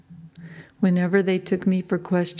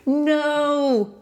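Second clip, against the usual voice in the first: high, loud desperate no; accused woman yelling no as loud as she can; yelled; 8 semitones higher than usual. A narrator's reading. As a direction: throw everything into the denial. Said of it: "I yelled as loud as I could".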